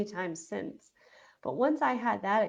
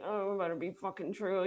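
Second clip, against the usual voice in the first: miserable mutter; 3 dB quieter than usual. Retold or imitated. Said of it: "I was, like, miserable looking".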